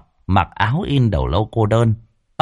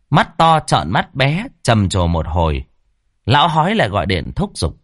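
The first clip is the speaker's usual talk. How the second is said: ordinary delivery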